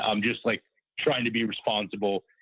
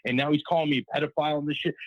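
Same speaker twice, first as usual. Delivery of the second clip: higher-pitched, hurried complaint; mildly worked-up retold griping; pissed off, retold; 6 semitones higher, faster than usual. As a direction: replay an annoyed protest to a cop. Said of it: "You're pretty pissed".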